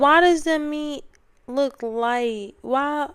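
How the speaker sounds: high, baffled questions; can't believe what she sees; incredulous. Real, not acted. Reacting to a bad cheesesteak.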